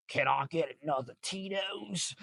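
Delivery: put-on pleading passenger voice; imitated passenger. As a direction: mimic a hopeful passenger ordering a drink. Passenger quoted asking for drink.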